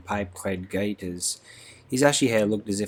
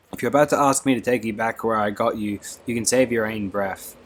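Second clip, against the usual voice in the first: a little louder, sharp retort; snapping; 2 semitones higher, 3 dB louder than usual. Acted. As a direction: snap back at the other girl. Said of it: "snapped Beatty".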